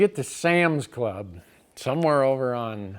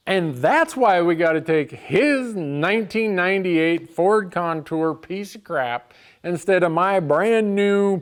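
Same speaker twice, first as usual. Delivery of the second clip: exasperated rant; 4 semitones higher, 4 dB louder than usual. Real, not acted. Narrator fumes at Lou's scheme, loud and slowed. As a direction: vent about the piece of crap car. Angry rant about the car.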